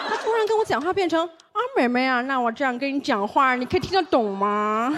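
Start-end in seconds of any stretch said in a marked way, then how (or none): 1.3-4.9 a lightly imitated, badly faked Beijing accent with every sound curled; a Taiwanese cabbie hams up a Beijing accent, every sound rolled like 儿; clumsy mock Beijing accent. Taxi driver mimics the passenger, clumsy curled-tongue Beijing accent. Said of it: "他每个音呢，他都卷舌儿".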